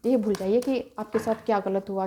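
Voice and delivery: ordinary talk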